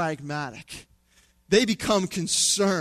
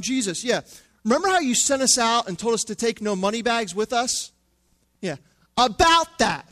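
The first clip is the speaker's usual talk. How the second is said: higher, sheepish disciple hedging; slowing on the awkward admission, higher; mock-nervous disciple, higher; 4 semitones higher, 4 dB louder than usual. Disciples voiced, awkward excuse.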